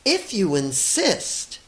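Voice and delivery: slow, sweet calm answer; sweetly. Acted. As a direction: say it sweetly, unafraid. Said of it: "answered the friendly ladybug sweetly".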